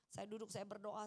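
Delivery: usual speaking voice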